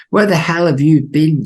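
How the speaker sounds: high, loud shouted demand; Lynch voice. Acted. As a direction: bark it like a gruff boss. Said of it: "says Jeffries, says Lynch".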